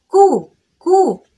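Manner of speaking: كو drawn out slowly, high and loud; slow kaf sound. Shown as a demonstration. Teacher stressing كو, not قو. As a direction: stretch كو with a light front k. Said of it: "ما بقولكش قو".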